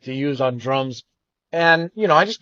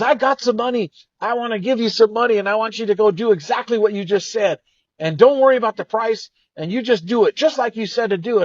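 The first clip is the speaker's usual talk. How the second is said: excited friend; 6 semitones higher than usual. Retold or imitated. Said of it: "Sam got super excited".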